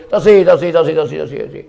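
rapid repeated refusal, first one loud; acted insistent refusal. Bilal turns down the request for azan, acted refusing. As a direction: burst out refusing, then repeat it quickly.

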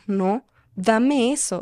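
dame eso drawn out slowly and firmly, dame stretched and falling. Retold or imitated. Retelling her angry mum snatching the diary, slow firm demand. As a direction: repeat dame eso slowly, each word pressed down. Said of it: "la veo enojada y me dice".

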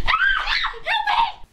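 very high, loud, laughing cry for help; laughing scream. Real, not acted. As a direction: shriek for help while laughing. Pillow fight, being hit.

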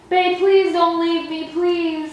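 slow, drawn-out sarcastic pleading; mock begging. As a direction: beg them to stay, hamming it up. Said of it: "do you want me to beg you to stay home".

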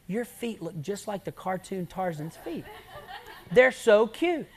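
loud laughing tease; laughing quote. Retold or imitated. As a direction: giggle through the compliment. Youth's teasing remark, laughing.

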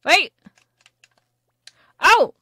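surprised. Real, not acted. Fish bites suddenly.

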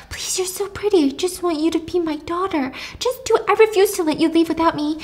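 a hint of a desperate mom; begging mom. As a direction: beg like a clingy mother. Mom clinging, begging Jules.

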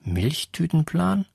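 stunned echo of a nickname; incredulous question. A narrator's reading. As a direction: repeat the word as if you can't believe it. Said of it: "Er starrte mich ungläubig an".

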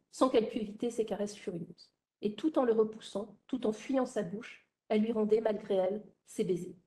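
even, expressive novel reading; literary narration. A narrator's reading. Lecturer reads the scene in the lover's lodgings, literary narration.

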